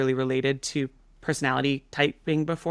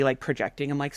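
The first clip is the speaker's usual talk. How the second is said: ordinary talk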